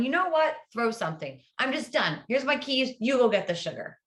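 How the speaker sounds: mildly acted fed-up outburst. Husband acting out a reaction to his wife, fed up. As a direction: hand off the task in mock exasperation.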